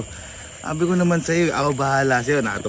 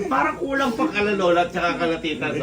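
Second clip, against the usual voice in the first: high, loud voice through laughter; laughing joke; 10 semitones higher, 5 dB louder than usual. Real, not acted. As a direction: joke while cracking up. Joking with the grateful family. (pabirong tumatawa)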